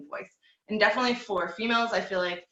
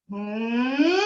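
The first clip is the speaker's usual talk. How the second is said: head voice slide; 3 semitones higher, 4 dB louder than usual. Shown as a demonstration. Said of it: "so we don't wanna do".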